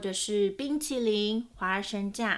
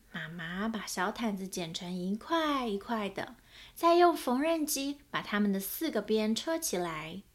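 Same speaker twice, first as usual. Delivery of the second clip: lively picture-book reading with voiced characters; story narration. A narrator's reading. Narrator reading a children's book aloud, storytelling voice. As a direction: read it like a storyteller to small children.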